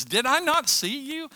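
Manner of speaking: high, loud challenge; mock accuser's loud question; acted accusation. Servant accuses Peter in story.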